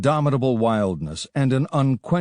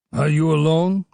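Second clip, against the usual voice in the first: raised, loud challenge; demanding; 6 semitones higher, 4 dB louder than usual. A narrator's reading. A suspicious chief challenges the lone rider, loud and demanding. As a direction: bark the question at the stranger. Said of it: "demanded Muhammad".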